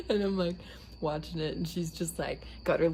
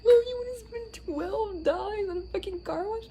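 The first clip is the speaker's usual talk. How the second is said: high, louder teasing protest; mock exasperated retort; 5 dB louder than usual. Daughter mocking mom's pricey car wash, loud teasing. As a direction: scoff at her like a bratty teen. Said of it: "I was like".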